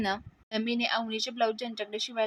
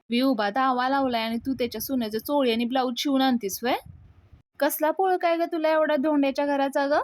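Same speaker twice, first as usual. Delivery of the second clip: mild mock telling-off, building louder and higher; retold scolding; 3 semitones higher, 4 dB louder than usual. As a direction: imitate a mother scolding her daughter, rising at the end. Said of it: "Sulakshana पुढे नमीला ओरडत असते".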